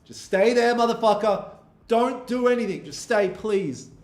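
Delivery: high, urgent pleading with the chart. Real, not acted. Trader pleading with gold to stay put, high and urgent. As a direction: coax the price to stay put.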